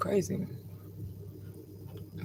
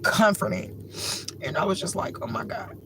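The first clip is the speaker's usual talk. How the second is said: soft breathy whisper through real tears; teary whisper; 4 semitones higher, 5 dB quieter than usual. Real, not acted. Remembering the comfort she felt, teary whisper. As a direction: fade to a tearful hush. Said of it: "It's nothing to be crying about".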